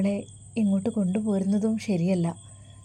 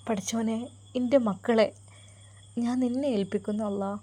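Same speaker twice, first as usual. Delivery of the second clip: tearful mother's prayer; 3 semitones higher than usual. Acted. Mother prays as son leaves.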